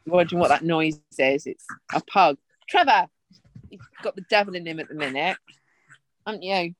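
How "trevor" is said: higher, sharp call of a name; scolding the dog. Real, not acted. Owner to pug with devil in him, scolding. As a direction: call a misbehaving pet to order.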